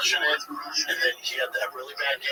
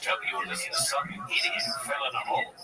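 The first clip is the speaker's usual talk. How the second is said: Day-Lewis impression. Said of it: "Daniel Day-Lewis talking".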